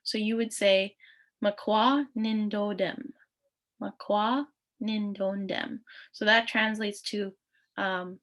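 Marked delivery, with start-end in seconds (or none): 1.4-5.8 Makwa Nindodem spoken slowly and clearly; slow model pronunciation. Shown as a demonstration. Teacher models the clan phrase for students, slowly. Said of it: "teacher models phrase".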